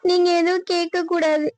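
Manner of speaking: crying, begging him to stay out of it; tearful pleading. Acted. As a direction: plead through tears. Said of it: "நீ அழுவாதம்மா".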